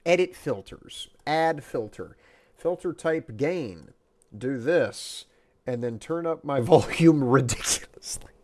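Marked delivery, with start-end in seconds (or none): 5.7-8.3 whispering. Real, not acted. Laughing whisper while adjusting mic.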